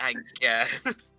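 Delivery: resigned, defeated, beaten-down, all hope sapped. Teasing someone who sounded upset about the news, mocking a defeated tone. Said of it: "You sound so defeated. You're like".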